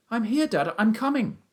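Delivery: put-on high, loud boyish shout; excited calling. A narrator's reading. Son has found his father's voice, excited calling. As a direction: shout back high and eager.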